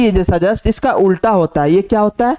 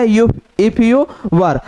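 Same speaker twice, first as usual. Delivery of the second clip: drawn out, word by word; slow dictation; much slower than usual. Shown as a demonstration. Teacher dictates the phrase slowly to the class. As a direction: read it out slowly for students to write. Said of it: "teacher dictating a shorthand phrase".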